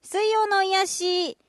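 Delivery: Kagoshima dialect read. Acted. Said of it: "鹿児島弁".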